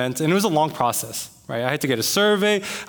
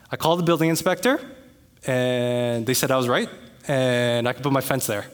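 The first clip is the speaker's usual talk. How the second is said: mock-innocent gloating; 3 semitones lower than usual. Homeowner telling neighbor the inspector agreed, mock-innocent. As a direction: deliver the win with feigned hesitancy. Reporting victory back to neighbor.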